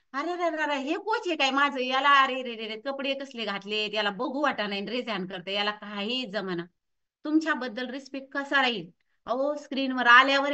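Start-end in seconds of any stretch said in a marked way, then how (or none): 0.1-6.6 muttered, pitying mock disapproval; softly tutting, voice sinking as it goes; disappointed disapproval. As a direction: act a let-down trainee grumbling to themselves. Acts disappointed trainee judging coach.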